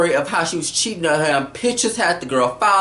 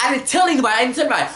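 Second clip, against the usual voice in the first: higher-pitched panicky denial; mock freaking out; 6 semitones higher, much faster than usual. Recapper acts out Jeff denying he told, mock freak-out. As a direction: protest as if imitating someone losing it. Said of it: "just freaking the freak out".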